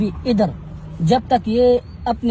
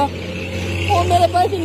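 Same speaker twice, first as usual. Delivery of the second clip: mock crying; 6 semitones higher, much slower than usual. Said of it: "मैं खुदा की कसम आपके सामने रो जाऊंगा".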